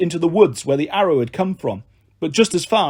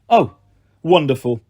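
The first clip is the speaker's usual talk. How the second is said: sarcastic mutter. Acted. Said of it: "Thalia muttered".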